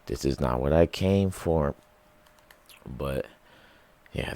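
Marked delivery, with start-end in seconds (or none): 0.0-1.7 real-life letdown. Retold or imitated. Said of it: "since it's not a movie and it's real life".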